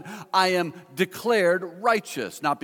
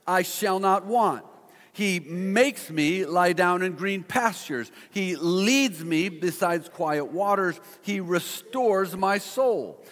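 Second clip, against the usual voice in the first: slow, leaning on "me" and "my" throughout; personal emphasis; slower than usual. Shown as a demonstration. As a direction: speak each line into yourself, slowly. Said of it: "kind of put a little emphasis on it".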